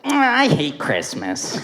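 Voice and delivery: slow, lightly voiced cartoon grump; imitated slow grumble; the Grinch. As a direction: drag it out like a mild trailer Grinch. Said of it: "I saw the trailer, and he's like".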